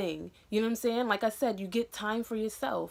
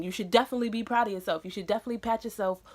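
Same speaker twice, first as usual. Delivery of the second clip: breathless, words rushing out; out of breath; much faster than usual. Real, not acted. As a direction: talk fast and winded with excitement. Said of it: "Look, I'm out of breath".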